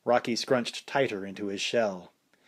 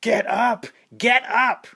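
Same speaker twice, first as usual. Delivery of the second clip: much higher, louder desperate shout; frantic yelling; 12 semitones higher, 7 dB louder, slower than usual. A narrator's reading. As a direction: scream at him to get up. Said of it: "Paulie went insane, yelling".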